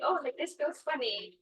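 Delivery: put-on excited kids. Kids touching animals in the pool, mildly excited. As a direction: lightly mimic a curious kid. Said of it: "like, all excited".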